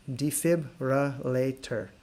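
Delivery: very slow Defibrillator, each syllable clear; slow model word. Shown as a demonstration. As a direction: drag Defibrillator out slowly. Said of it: "So in English".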